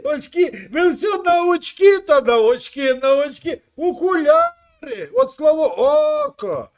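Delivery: loud lecturing rant; heated shout. Real, not acted. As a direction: shout him down. Heated rant about glasses.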